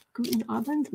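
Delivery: unsure non-native German accent; awkward German accent. Shown as a demonstration. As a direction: attempt a German accent, rising like a question. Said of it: "My, my German accent is awful".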